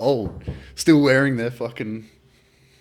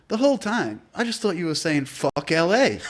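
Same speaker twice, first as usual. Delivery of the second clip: laughing retell; 7 semitones higher than usual. Retold or imitated. Friend laughing at mishearing.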